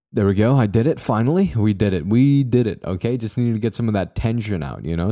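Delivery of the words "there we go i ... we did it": cheering in relief; triumphant. Real, not acted. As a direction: celebrate finally getting it. Triumph after finishing the quote.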